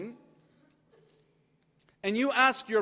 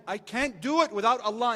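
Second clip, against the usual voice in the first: louder affirmation; 2 semitones higher than usual. Shown as a demonstration. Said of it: "say it like you mean it".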